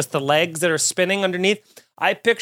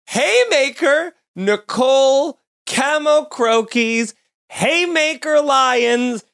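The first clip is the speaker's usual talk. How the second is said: hype announcer; 7 semitones higher, slower than usual. Real, not acted. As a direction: announce her like a champion fighter. Hyping cohost's punch.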